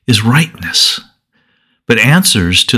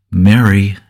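a soft, tender "Mary"; the risen Jesus calling Mary's name softly; spoken softly; 2 semitones lower than usual. A narrator's reading. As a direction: call her name gently, almost privately. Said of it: "he spoke softly".

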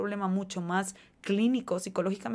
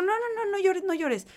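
put-on high, rushed hushing of a crying child; 10 semitones higher, 4 dB louder than usual. Adult hurriedly hushing a crying child, high and rushed. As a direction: shush the child fast and high. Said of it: "Un niño está llorando y es como".

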